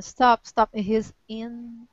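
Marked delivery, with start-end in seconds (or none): 0.0-0.7 mild yell. Acted. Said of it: "Was yelling".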